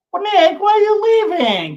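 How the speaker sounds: high, loud call after him. Real, not acted. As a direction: shout it after someone walking away. Calling after departing friend.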